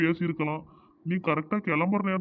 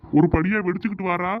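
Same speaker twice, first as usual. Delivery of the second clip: angry retort; 6 dB louder than usual. Acted. Wife angrily confronts husband.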